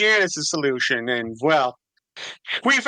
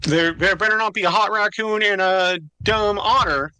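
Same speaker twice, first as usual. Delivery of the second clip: grating nasal voice. Acted. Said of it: "Duke's grating, nasally voice".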